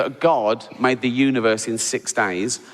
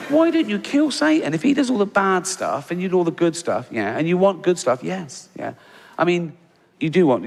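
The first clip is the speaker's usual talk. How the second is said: higher, insistent, badgering questions; incredulous questioning; 4 semitones higher than usual. Comedian to God, a mock-exasperated grilling about Satan. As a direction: corner him with each question.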